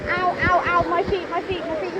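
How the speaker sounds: pained yelping ow; pained yelps. Real, not acted. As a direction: cry out at each step. Barefoot on rocks, in pain.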